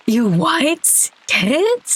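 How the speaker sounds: high-pitched, hammed-up shock; shocked disbelief. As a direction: gasp it out, scandalized and high. Shocked at a friend's betrayal.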